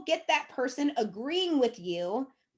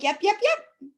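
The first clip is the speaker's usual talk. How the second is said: mock eager agreement; 9 semitones higher, 4 dB louder, slower than usual. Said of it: "you'd be like".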